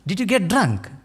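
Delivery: mildly acted disbelieving dad questioning his son; incredulous father. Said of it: "his father is scratching".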